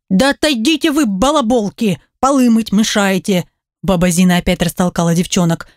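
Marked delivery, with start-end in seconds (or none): 0.1-3.5 ворчливая старушка. Acted. Ворчит баба Зина.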